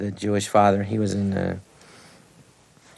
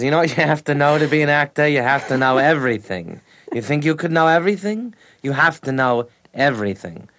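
imitating Ned Glass; 4 semitones higher than usual. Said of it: "he talks like this".

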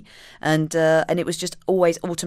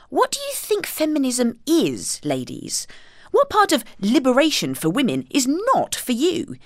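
exasperated; 5 semitones higher than usual. Retold or imitated. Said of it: "I used to think".

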